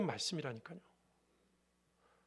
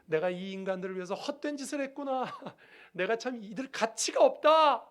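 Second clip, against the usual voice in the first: despairing lament; 3 semitones higher, 4 dB louder than usual. Acted. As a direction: lament as Jesus's human side, slowing as it swells. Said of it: "인성이 이렇게 절망하면서 말합니다".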